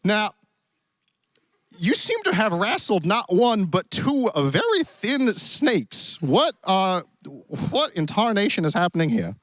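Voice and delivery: put-on cowboy accent. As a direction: play a genial Western cowboy host. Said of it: "Is your accent supposed to be".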